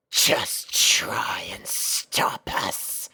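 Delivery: low, menacing whisper; whispered ninja taunt. Acted. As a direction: hiss the dare slowly. Lead ninja retorts.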